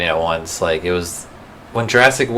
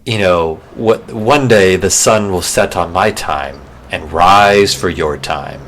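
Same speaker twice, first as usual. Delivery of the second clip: Mufasa; slower than usual. Retold or imitated. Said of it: "And Mufasa goes".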